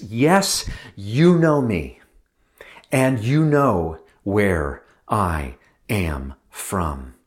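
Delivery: slow, halting proclamation; arresting cry. Acted. Jesus crying out to the temple crowd, halting proclamation. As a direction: start strong, then set each word apart, slowly. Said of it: "in a loud, clear, astounding, halting, arresting voice".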